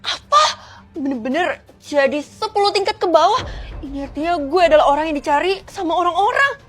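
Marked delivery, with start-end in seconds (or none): 0.0-3.4 shocked. Acted. Shocked at house losing floors.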